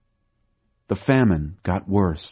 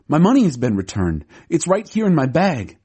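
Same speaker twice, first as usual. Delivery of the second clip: called out; 6 semitones higher than usual. A narrator's reading. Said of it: "He called out to his brothers".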